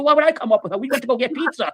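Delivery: high-pitched defensive retort; acted-out indignation; indignant protest. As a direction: protest as if falsely blamed. Acted quarrel over missing mother.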